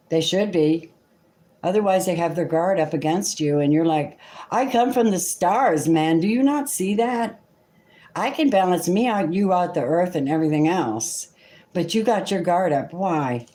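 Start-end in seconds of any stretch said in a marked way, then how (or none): 4.5-11.3 higher, lightly voiced star child insisting; a hint of a pleading Aquarius, raised up in pitch; proud cosmic Aquarius. Tarot reader voicing the Aquarius who wants to be seen, higher and insistent.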